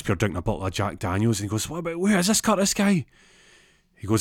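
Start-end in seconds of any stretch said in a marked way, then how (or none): 1.7-3.1 high, acted-out jealous fury; pitched-up indignant question; outraged demand. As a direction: demand a name in mock rage. Demands to know the rival.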